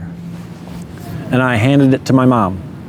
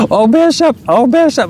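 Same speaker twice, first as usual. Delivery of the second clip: much higher, weepy mock mother voice; imitating tearful mom; 12 semitones higher than usual. Son retells mom learning she's a grandma, in a much higher tearful voice. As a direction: pitch way up into the mother's crying plea. Mom overwhelmed by family news.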